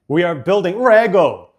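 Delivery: put-on loud, comedic generic Asian accent; mock Asian accent. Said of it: "that's what I mean when you make fun of how I speak".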